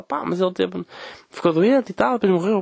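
imitating older lady. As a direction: drag it out like the neighbour. Voices older woman again.

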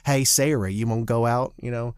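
brash fake New York accent, Southern underneath. Actor showing he can't pass as Sky Masterson, fake New York accent. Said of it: "play, like, Sky Masterson and be like".

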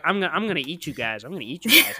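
lightly voiced witch threat; quick, mildly menacing mock witch; hint of a storybook witch; witch mode. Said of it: "he goes straight Hansel and Gretel witch mode".

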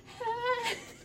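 high quivering mock whimper. Girl posed by the Grinch, high quivering whimper. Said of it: "I was quivering".

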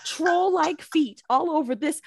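slow, grand indignation; hammed-up elder rebuke; mock sermon. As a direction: preach the scolding slowly.

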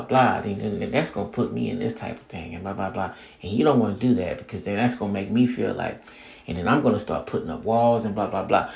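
low, soft, hurried rundown of complaints; quick mock lecture dissolving into blahs; imitated relationship lecture. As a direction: reel off someone else's demands dismissively, under your voice. Voicing partner's complaint in a disagreement.

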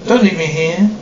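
an eerie ghost pleading to be taken along; ghostly voice. Acted. Ghost of the saloon begs the visitors, eerie pleading moan. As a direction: moan it like a spirit trapped in the saloon. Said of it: "Ghostly voice".

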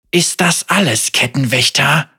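through gritted teeth. Acted. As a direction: spit the challenge at the jailer. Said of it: "durch zusammengebissene Zähne".

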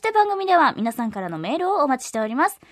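upbeat announcer with lifted phrases; polished promotional announcement; radio promo read. Acted. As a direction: pitch the news to listeners clearly. Reads programme notices.

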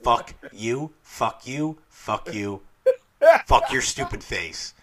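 real giggly fond cursing at a movie scene; laughing curses. Real, not acted. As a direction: laugh while you swear affectionately. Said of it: "I know I'm laughing".

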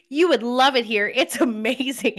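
mock flirty enthusiasm; flirting. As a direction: imitate gushing flirtatiously down the phone. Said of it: "flirting with Gregory on the phone".

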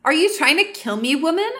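mildly outraged accusation; exploding. Acted. Inessa accusing Lumine over bitter coffee, exploding. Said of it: "Inessa explodes".

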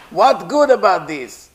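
king losing his temper at his servant; angry king. Acted. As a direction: scold him as a furious king. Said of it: "The king got angry".

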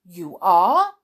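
loud, firm contradiction; insisting king. A narrator's reading. King contradicting Alice about her height, loud insistence. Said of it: "said the king".

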